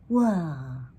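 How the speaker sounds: big drawn-out yawn sound. Shown as a demonstration. Reader showing Brother's yawn, yawning. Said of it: "That's the yawn".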